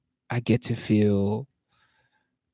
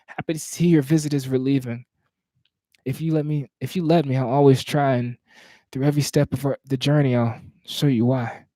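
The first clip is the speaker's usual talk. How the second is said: slightly higher, measured poetry recital; spoken word poem; 3 semitones higher than usual. Acted.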